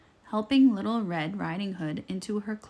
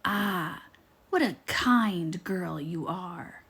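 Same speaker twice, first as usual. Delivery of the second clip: slow, sly flattering wolf; a touch of smarmy sweetness; smiling wolf; slower than usual. Acted. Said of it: "smiled the wolf".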